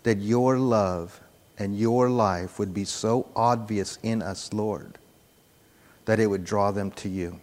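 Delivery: low, measured prayer voice. Real, not acted. Preacher closing a prayer to the Lord, low prayer voice. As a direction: pray earnestly, keeping it low.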